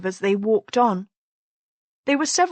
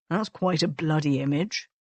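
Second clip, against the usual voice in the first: said mildly; 4 semitones lower, 4 dB quieter than usual. A narrator's reading. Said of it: "he said mildly".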